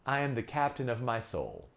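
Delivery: commanding statement, "soul" falling away; one firm fall at the end, on "soul"; falling pitch at the end. Shown as a demonstration. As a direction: drop the pitch on SOUL to close. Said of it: "I can put a falling pitch at the end".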